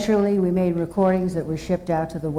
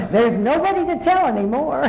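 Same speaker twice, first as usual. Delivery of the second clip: laughing; 3 semitones higher than usual. Real, not acted. Joking about old school grades.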